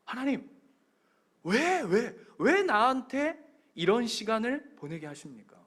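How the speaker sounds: mildly reproachful appeal, retold; acted resentful complaint. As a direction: plead "why me" as if to God. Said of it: "하나님 앞에 원망하실 때".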